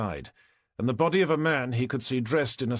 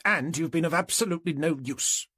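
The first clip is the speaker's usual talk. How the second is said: higher-pitched, mildly indignant complainant; indignant neighbour; 6 semitones higher than usual. A narrator's reading. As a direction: raise the pitch in mild reproach. Indignant neighbour berates police.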